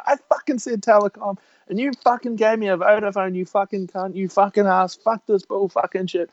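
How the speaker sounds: high-pitched imitation of a furious customer; mock angry yelling. Irate customer berating the guy behind the counter, mock yelling. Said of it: "bitching and yelling and screaming".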